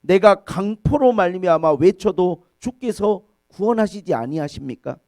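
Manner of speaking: loud prophetic plea, easing at the end; protesting prayer. Retold or imitated. Habakkuk demanding God's answer, loud pleading prayer. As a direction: call out to God, then let it fall. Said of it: "하박국 선지자는 그렇게 기도합니다".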